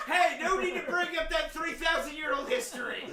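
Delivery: loud, laughing retort. Real, not acted. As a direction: laugh through the line. Joking retort while laughing.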